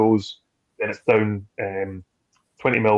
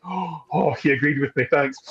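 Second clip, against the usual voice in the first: mock delight; 5 semitones higher than usual. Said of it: "I'm getting like".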